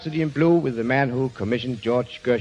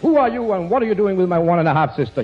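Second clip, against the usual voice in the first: higher, hammed-up drunken shout; mock shout; 5 semitones higher, 3 dB louder, faster than usual. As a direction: bellow it at the intruder, half in jest. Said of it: "he shouted".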